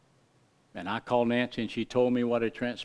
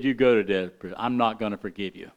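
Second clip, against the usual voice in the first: lower, a hint of a stern creditor; 6 semitones lower, faster than usual. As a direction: refuse him flatly, lightly voiced. Unforgiving man refuses the debtor.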